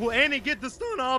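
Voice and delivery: voice breaking partway through. Commentating a live match, voice cracking. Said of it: "my voice cracked".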